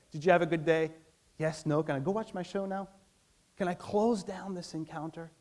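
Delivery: quick, going-through-the-motions check-in; mock-closed question to a spouse, eager to close the chat; perfunctory question. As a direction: ask it just to be done with it, eyes on the TV. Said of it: "your tendency will be to say".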